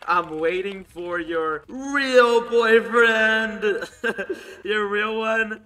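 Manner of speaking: slow, drawn-out teasing through laughter; slow mocking sing-song with a laugh in it; laughing taunt. Real, not acted. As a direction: tease her slowly while cracking up. Taunting the girl about boyfriend.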